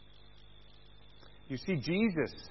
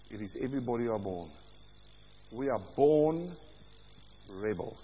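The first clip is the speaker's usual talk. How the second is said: low intense preaching; 8 semitones lower, 7 dB quieter than usual. Real, not acted.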